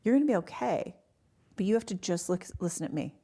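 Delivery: calm, quoted doctor reassurance; steady a panicking patient, retelling it; utter calm. Retold or imitated. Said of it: "it was utter calm".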